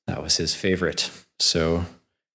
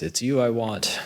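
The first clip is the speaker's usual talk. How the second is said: lightly voiced ogre; 6 semitones higher than usual. Ogre singles out the prince to capture, lightly voiced and higher. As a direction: play the ogre picking out his prey, lightly. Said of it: "this huge ogre of a person says".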